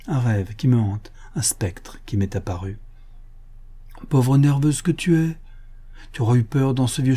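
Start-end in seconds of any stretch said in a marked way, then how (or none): 1.3-2.8 hushed, haunted whisper; fearful whisper. Acted. Aline telling Julien of the ghost, in a frightened whisper. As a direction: whisper as if the ghost could hear. Aline confessing her nightmare.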